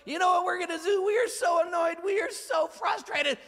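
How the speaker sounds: hammed-up angry mob shout; frustrated shout. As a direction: yell it like an angry mob of his own men. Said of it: "His own guys were like".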